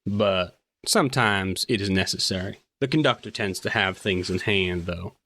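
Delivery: a hint of a guarded railway officer; lightly voiced officer. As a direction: answer carefully, in character. Game master plays the officer.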